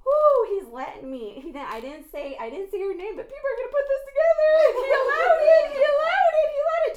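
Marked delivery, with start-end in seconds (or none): 3.2-6.9 higher, louder, fast heated outburst. Real, not acted. Preacher to his listeners, heated loud repetition. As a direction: hammer it home again and again.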